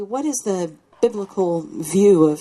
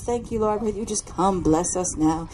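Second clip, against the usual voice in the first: big-word prayer. Shown as a demonstration. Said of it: "we use big words".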